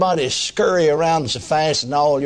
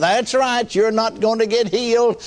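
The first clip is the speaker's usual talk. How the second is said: the devil; 6 semitones higher than usual. Retold or imitated. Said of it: "The third time he said".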